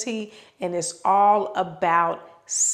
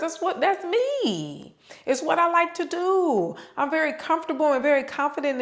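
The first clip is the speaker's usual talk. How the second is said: dragging her words; 7 semitones higher than usual. Shown as a demonstration. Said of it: "how I drag my words".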